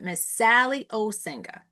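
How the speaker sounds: "Sally Osinga" in two deliberate beats, falling at the end; imitated teacher saying "Sally Osinga"; teacher's own pronunciation. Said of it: "I had to say it like she says it".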